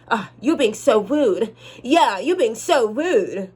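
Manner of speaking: slow, drawn-out teasing whine; playful complaint. Acted. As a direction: stretch it out, mock-offended. Mimics bedroom-style complaint.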